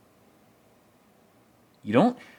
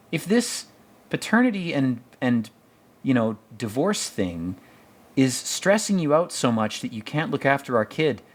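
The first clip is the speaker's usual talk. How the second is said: pitched-up, lightly voiced worried wife; imitating wife; 4 semitones higher than usual. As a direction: parody her anxious questions. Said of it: "And she's like".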